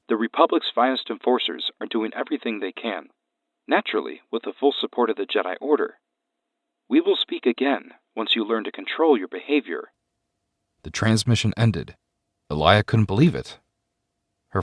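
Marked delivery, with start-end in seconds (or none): 0.1-9.9 flat, emotionless alien voice; monotone alien master. Acted. Master's cold reply.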